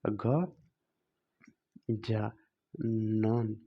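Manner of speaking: ग, जा, नन with long pauses between; dictation-style गजानन, broken into three parts; syllable by syllable. Shown as a demonstration. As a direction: spell out गजानन slowly in separate pieces. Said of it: "तो यहाँ पे हो जाएगा क्या?".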